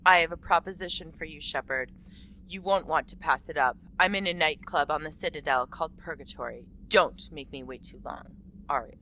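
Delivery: a hint of a tough club boss; badass Aria voice. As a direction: read it like a tough club owner. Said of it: "Be, be a badass when you read this".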